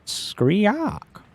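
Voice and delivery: high creature squawk. Acted. Player voicing the creature as a high screech.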